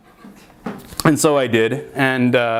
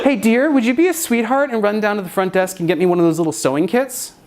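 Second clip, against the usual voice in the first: mock sweet creepy voice; 6 semitones higher than usual. Sweet creepy Marina voice, higher.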